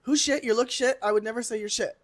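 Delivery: high, loud mock takedown; reading them down. Host demanding contestants name the worst, mock takedown. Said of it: "Reading the girls down".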